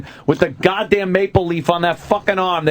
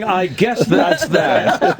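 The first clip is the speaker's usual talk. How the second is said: resigned shrug; 4 semitones higher, much slower than usual. Retold or imitated. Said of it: "People were quoted as saying".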